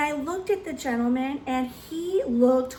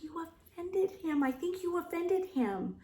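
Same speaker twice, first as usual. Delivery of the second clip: hushed aside; 5 semitones higher, 8 dB quieter than usual. Retold or imitated. Hushed aside after man leaves.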